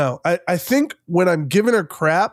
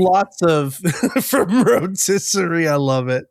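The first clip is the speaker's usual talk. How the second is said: laughing. Real, not acted. Laughing at the name joke.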